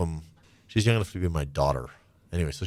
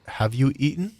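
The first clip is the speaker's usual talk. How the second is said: higher, gently concerned voice of a coworker; caring coworker; 7 semitones higher than usual. Retold or imitated. Coworker checking on him, lightly voiced, concerned. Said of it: "would look at me and say".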